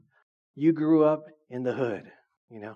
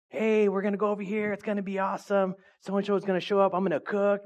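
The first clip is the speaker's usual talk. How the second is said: higher-pitched, eager sales pitch; hype friend; 6 semitones higher, faster than usual. Acted. Friend calls to hype up weekend plans, excited. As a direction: hype up the plan like an excited pal. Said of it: "They hype it up".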